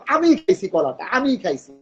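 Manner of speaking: আমি pressed in আমি খাইছি; stress on আমি. Shown as a demonstration. Teacher insisting he ate the banana, stressing আমি. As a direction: own up, leaning on আমি. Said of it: "তখন আমি জোর দিয়ে বলবো".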